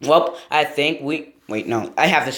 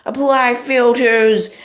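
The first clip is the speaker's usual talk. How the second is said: horror trailer voice; 10 semitones higher, 6 dB louder, slower than usual. Pretend. Dramatic announcement.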